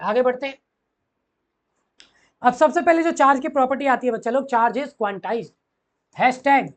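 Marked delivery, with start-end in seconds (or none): 4.5-5.5 each word stretched for note-taking; slow dictation. Shown as a demonstration. Teacher to students, dictating slowly. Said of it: "dictating property".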